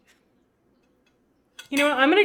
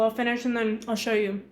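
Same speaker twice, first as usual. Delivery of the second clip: chewing while talking; mouth full; 3 semitones lower, 4 dB quieter than usual. Real, not acted. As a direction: speak around a mouthful of food. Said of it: "I'm talking with my mouth full".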